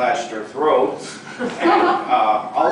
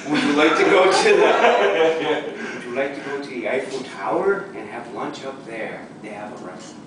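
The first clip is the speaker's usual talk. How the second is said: put-on English accent. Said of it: "He's, he's English".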